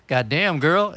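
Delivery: mild dad impression, rising on girl; a hint of a grumbling dad; imitating dad. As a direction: say it like your father. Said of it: "I said that shit just like him".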